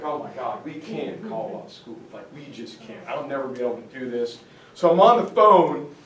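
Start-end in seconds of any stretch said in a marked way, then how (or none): 0.0-4.4 mock panic. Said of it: "I'm freaking out".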